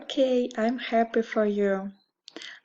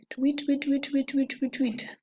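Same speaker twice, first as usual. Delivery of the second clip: bird chirp; 4 semitones higher, faster than usual. Shown as a demonstration. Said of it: "like this".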